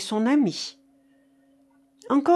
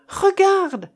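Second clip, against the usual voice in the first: very high, loud command; shouted urging; 10 semitones higher, 7 dB louder than usual. Acted. Marcof makes Keinec look into the coffin, shouted urging. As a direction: shout it, urging him to see.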